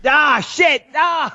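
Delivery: high-pitched cry of dismay; real exasperated "ah"; dismayed outburst. Real, not acted. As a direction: curse as if you just slipped up. Realises he named the network.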